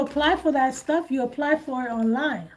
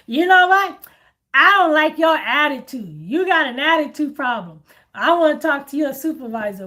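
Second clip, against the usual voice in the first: mock angry caller; 5 dB louder than usual. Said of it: "They be like".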